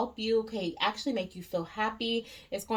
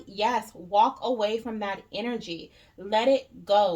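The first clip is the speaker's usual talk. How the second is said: louder, insistent mock command from Spirit; emphatic urging; 6 dB louder than usual. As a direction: urge them firmly, raising the voice a little. Voicing Spirit's firm command.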